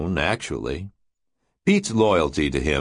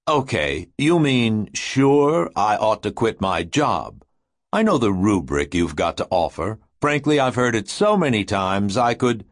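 urgent, husky and agitated. Acted. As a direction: press every word, worked up. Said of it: "in his agitated, husky, urgent voice".

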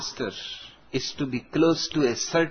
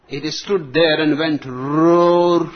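put-on old colonel voice; 4 dB louder, slower than usual. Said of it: "a retired British colonial army officer".

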